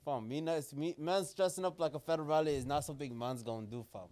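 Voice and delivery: lightly put-on London roadman accent, laid back. To co-host in the bow tie, a light London roadman accent. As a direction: talk like a roadman from the ends, a hint of London.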